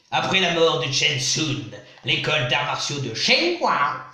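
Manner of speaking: slow, hammed-up Japanese accent on the names; mock Japanese accent, slow and showy. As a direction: put on a playful fake Japanese accent, drawing it out. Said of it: "Sentez mon bel accent japonais".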